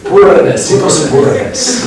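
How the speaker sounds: poorness said the Spanish way, high and loud; playful Spanish-accented poorness; jokey Spanish-accent take on poorness; mock Spanish accent. Shown as a demonstration. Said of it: "When I say this Spanish accent".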